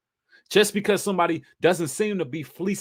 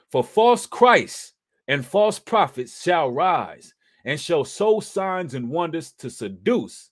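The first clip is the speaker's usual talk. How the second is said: scripture reading; 2 semitones higher, slower than usual. Acted. Reads scripture slowly.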